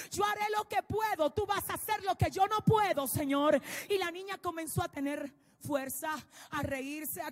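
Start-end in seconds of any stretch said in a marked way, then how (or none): 0.1-3.6 loud pleading cry to God; desperate prayer. Retold or imitated. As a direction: call out to the Lord with all your faith. Father prays aloud for his daughter. (padre que suplica a gritos a Dios por su hija)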